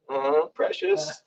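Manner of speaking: cling to the bullhorn like a hoarding creature; high, soft, drawn-out possessive mock creature. The speaker reluctant to give bullhorn.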